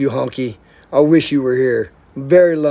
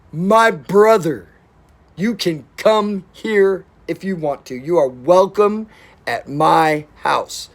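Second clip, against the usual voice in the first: slow sincere invitation; slower than usual. Real, not acted. Heartfelt invitation to friend Joe.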